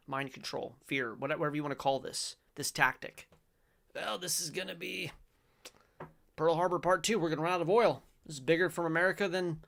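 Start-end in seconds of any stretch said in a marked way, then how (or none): 3.9-9.6 raised, louder doomsaying send-up; mock alarm. Showing viewers the fear tactic, mock-alarmed pundit. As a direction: parody a pundit sounding the alarm.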